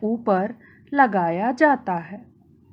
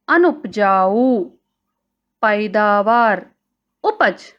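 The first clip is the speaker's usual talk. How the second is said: word list recitation. Shown as a demonstration. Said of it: "आज हमने व्याकरण में सीखा".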